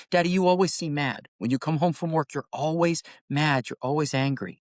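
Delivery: a hint of a hurt young daughter; little daughter's complaint. Dad retells daughter's complaint.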